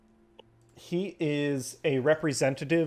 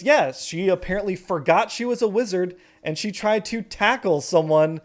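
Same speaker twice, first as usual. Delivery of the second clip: scandalized gossip; 5 semitones higher, 4 dB louder than usual. Acted. Mom gossiping about fight.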